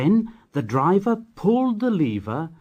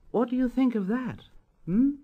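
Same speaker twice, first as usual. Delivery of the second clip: higher, teasing question; playful boast; 10 semitones higher than usual. A narrator's reading. Edward boasting to the engines, higher teasing tone. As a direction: tease the other engines.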